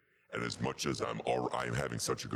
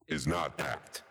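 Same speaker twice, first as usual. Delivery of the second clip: squeaky high; slower than usual. Acted. Contrasting technical bit.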